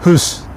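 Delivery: हुस with a long rounded u; long Swedish u. Shown as a demonstration. Teacher demonstrates long u in hus to students. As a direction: hold the u in हुस. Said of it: "ये long लफ्ज़".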